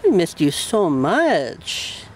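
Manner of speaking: joyful reunion. Real, not acted. Reunion with the cat.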